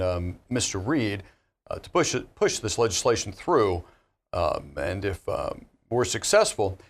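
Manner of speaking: hesitant presidential address, full of pauses; Barack Obama voice. Pretend. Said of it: "President Obama".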